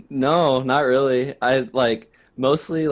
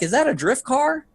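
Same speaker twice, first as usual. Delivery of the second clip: put-on elderly woman; 13 semitones higher than usual. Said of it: "the woman will be like".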